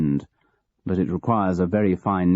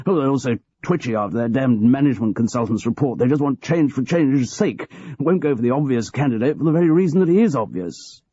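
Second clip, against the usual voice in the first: quick, higher-pitched petulant complaint; petulant grumbling; 6 semitones higher than usual. Acted. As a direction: hurry through the grievance, sulky. George grumbles on.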